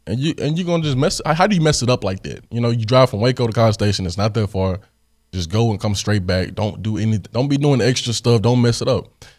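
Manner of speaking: retold telling-off, pitch jumping up in disbelief; mad at brother. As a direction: scold a brother who let you down. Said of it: "really mad at my brother".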